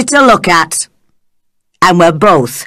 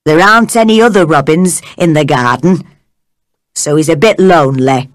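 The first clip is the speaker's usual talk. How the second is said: put-on Yorkshire old man; 3 semitones lower, faster than usual. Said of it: "He spoke in strong Yorkshire dialect".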